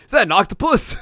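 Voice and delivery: put-on high, loud childlike squeak; squeaky Shippo. Shippo sees a body in the river, high squeaky question. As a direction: ask it like a clueless little fox kid. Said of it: "and Shippo's like".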